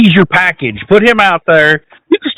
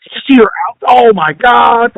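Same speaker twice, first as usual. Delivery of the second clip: mock gushing; 4 semitones higher than usual. Host parodying fans fawning over her shoe, mock gushing. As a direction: gush in mock amazement.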